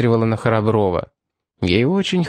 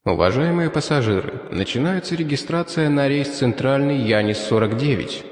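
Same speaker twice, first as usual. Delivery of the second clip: airport announcement. Acted. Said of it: "раздался приятный мужской баритон".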